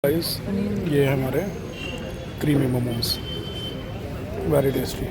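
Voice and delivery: talking through hot momos; words around a burning bite; mouth full of hot food. Real, not acted. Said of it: "मुंह जल गया मेरा".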